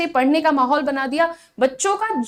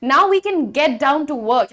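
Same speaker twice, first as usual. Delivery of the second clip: very slow, word by word; slow model sentence; much slower than usual. Shown as a demonstration. Teacher modelling a phrase slowly for students. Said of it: "English में आप कह सकते हैं".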